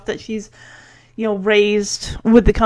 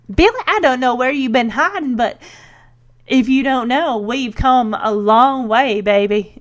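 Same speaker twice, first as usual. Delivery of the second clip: put-on light, homemade southern accent; imitated southern accent. Recapper imitating Kate answering Billy in a southern accent. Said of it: "dons a southern accent".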